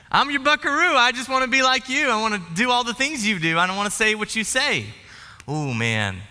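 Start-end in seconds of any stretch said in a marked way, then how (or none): 0.1-4.9 put-on a small boy gushing to his dad; boy's chorus. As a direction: chirp it like an excited kid. Sings boy's chorus excitedly.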